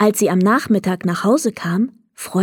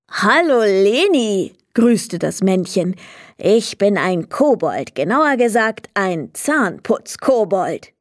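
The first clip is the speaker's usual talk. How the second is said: lightly voiced little kobold greeting; a cheerful tiny goblin, light touch; hint of a tiny kobold saying hello. Kobold character voice.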